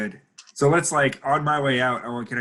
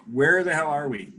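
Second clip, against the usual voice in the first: higher-pitched mild mock yell; acted yell; 4 semitones higher than usual. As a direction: call up to the driver, only half shouting. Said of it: "yell at the driver".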